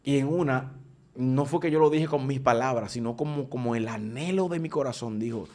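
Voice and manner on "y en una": usual speaking voice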